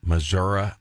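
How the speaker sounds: Missouri as mizz-URR-uh; rural pronunciation. Shown as a demonstration. Host doubting the politician's trick, Missouri as mizz-URR-uh. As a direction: question Missouri with an uh ending. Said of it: "change the pronunciation and say Missouri".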